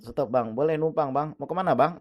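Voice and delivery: retold eager call for a lift. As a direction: flag down a passing motorbike. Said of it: "dia manggil-manggil saya".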